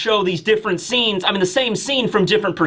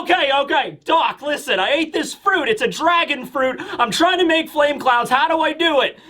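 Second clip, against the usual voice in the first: higher, harried caller voice; urgent pleading; 5 semitones higher than usual. Acted. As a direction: press the doctor for help urgently. Desperate caller asks doctor for help.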